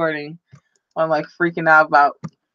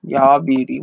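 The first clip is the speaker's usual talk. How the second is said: slow Southern-style y'all talk; drawn-out, folksy Southern greeting; y'all drawl; 3 semitones lower, much slower than usual. Real, not acted. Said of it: "Why am I talking like y'all all of a sudden".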